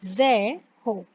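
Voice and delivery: "ज़े हो" with the r as h; French zéro. Shown as a demonstration. Teacher modelling zéro for the class. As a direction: say "ज़े हो" with the r breathed like h. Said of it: "आर is ह".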